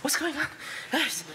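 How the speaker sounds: laughing. Real, not acted. Laughing at crowd of questions.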